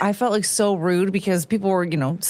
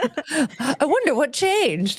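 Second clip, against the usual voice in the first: sarcastic; 6 semitones higher, much slower than usual. Pretend. Sarcastic slow remark.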